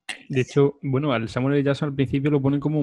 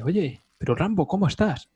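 general; 5 semitones higher than usual. Retold or imitated. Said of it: "aparece el general y dice".

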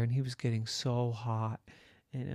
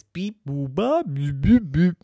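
loud mocking beeps, rising higher; mimicking the robot; 5 semitones higher, 10 dB louder than usual. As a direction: imitate the robot in exasperation. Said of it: "all the robot can say is".

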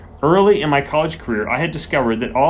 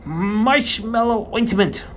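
hoarse whisper; 9 semitones higher, much slower than usual. Acted. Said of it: "spoke in a hoarse whisper".

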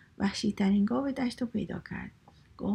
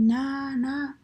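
loud, raised storybook roar of refusal; tiger's roar; 5 semitones higher, 4 dB louder, much slower than usual. A narrator's reading. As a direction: roar it out, higher and louder. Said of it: "ببر نعره کشید". (نعرهٔ ببر داستان)

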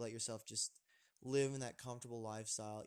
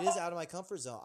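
laughing; 6 semitones higher, 9 dB louder, faster than usual. Real, not acted. Laughing admission while teased.

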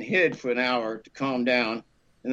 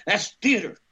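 higher-pitched bitter retort, mimicked; 6 semitones higher than usual. Boss dismissing a student's monologues, mock bitter. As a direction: imitate a bitter woman's put-down. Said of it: "just bitter she was".

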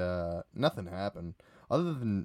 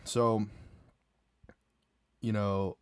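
normal talking voice

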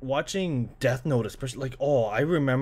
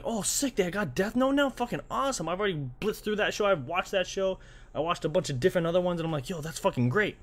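high, fast excited gush; a fan thrilled at the news; 6 semitones higher than usual. Retold or imitated. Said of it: "when they aired it, I'm like".

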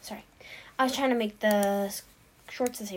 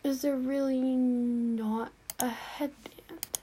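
frustrated sigh; 3 semitones higher, slower than usual. Real, not acted. Can't find a headband.

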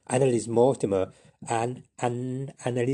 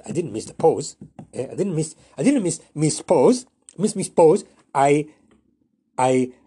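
rising higher and louder, tripping over the words; building mock protest; 5 semitones higher, 7 dB louder than usual. Storyteller tangled in his own tongue-twister, getting louder.

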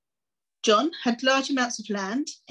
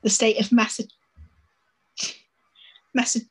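breathy whisper, trying the word. Real, not acted. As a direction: whisper it, stumbling on Massa-. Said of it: "I can't say it".

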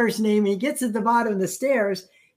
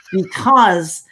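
emphatic; 5 dB louder than usual. Real, not acted. Emphatic just-the-facts stance.

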